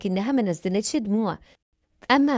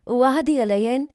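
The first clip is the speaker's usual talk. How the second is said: hopeful question, slightly raised pitch; asking a promise; 3 semitones higher, 3 dB louder than usual. Acted. Stepmother asks the little girl to promise, hopeful. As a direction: lift the ending, seeking assurance.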